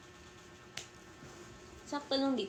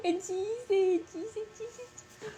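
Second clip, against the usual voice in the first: laughing teasing; 12 semitones higher, 3 dB louder, slower than usual. Real, not acted.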